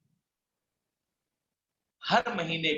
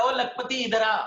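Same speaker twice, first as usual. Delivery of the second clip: higher-pitched imitation of a taunt; mocking call; 4 semitones higher than usual. People mocking the would-be lakhpati, imitated teasing call. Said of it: "ऐसा मजाक उड़ाने लगा".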